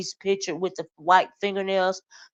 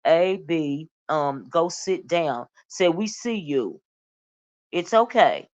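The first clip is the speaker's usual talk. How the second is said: sarcastic. Retold or imitated. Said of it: "she's being sarcastic here".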